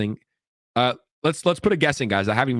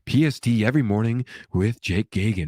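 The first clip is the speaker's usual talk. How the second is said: radio DJ voice; 2 semitones lower than usual. Pretend. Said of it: "my voice sounds like a D J A M radio voice".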